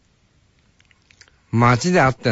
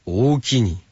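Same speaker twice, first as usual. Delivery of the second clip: Kansai thank-you; slower than usual. Retold or imitated. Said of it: "関西だけだろうな".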